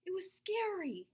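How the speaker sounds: whispered fright; scared whisper. A narrator's reading. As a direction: whisper it like it spooks you. Child admits fear.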